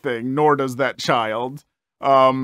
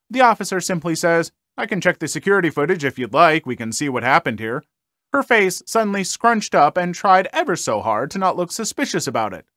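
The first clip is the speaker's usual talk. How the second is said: brisk storyteller reading a post; lively story reading; story narration; 2 semitones higher than usual. Acted. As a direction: read it like a story for viewers. Reads a Reddit story aloud.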